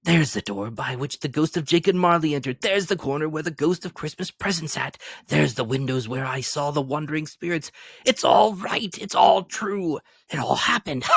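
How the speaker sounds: giddy rediscovery; tumbling joy; excited. A narrator's reading. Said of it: "frisking round the fireplace".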